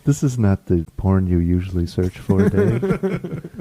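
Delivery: low, machine-like observation; monotone computer. Acted. Computer querying Dave's search, in a monotone. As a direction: report it like a talking computer. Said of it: "computer starts talking into a monotone".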